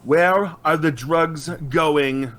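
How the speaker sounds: slow, drawn-out mock Batman growl; new intimidating voice. Told to try again, Batman drawls the question slowly. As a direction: stretch "Where are the drugs going?" out slowly in a hammed-up growl. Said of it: "that's not very intimidating. Try something else".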